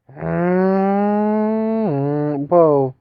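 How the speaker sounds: loud surprised whoa; startled. Real, not acted. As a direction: caught off guard, blurt it out. Startled in-game reaction.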